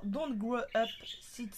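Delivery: English words read in a strong French accent; self-mocking French accent on the English quote. Shown as a demonstration. Crafter reading her stamp quote in French-accented English. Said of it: "avec mon super accent".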